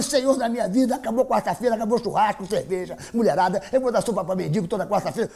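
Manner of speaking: comic frantic vow; mock desperate prayer. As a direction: beg the Lord, hammed-up.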